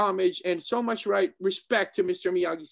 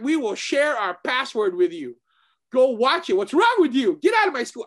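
mock scolding; 3 semitones higher, 4 dB louder than usual. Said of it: "Me and my other students, like".

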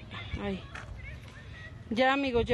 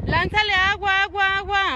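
urgent calling; 5 semitones higher, 5 dB louder than usual. Real, not acted. Calling helpers to throw water.

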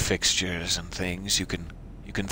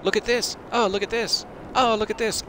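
squeaky mock voice; 13 semitones higher than usual. High squeaky imitation of someone.

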